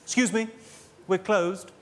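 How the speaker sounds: a hint of a haughty sales clerk; snooty shop assistant. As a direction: look down your nose at the customer. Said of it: "quite a snooty voice".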